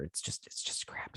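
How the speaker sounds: whispered disgusted verdict; muttered under breath. Real, not acted. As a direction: breathe it out in contempt.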